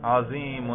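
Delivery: عظیم ending in -un, "azimun"; nominative ending pronounced. Shown as a demonstration. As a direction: sound the final -un on عظیم. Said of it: "تلفظ کر کے دکھائیے".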